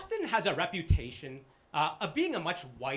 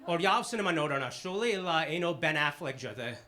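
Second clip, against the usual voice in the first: family talk. Retold or imitated. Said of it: "the kinds of conversations that happen in our house".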